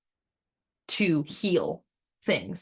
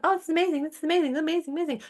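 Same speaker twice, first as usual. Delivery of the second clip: much higher, giddy roller coaster rider; mock thrill; 9 semitones higher, much faster than usual. Rider on the way up, much higher and giddy. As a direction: squeal it like the climb is amazing. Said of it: "You're just gonna go".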